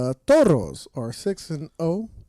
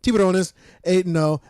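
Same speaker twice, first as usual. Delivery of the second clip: louder careful corrected reading; corrected reread; 4 semitones higher, 4 dB louder than usual. Real, not acted. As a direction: reread the line loud and sure. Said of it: "I'm reading this wrong".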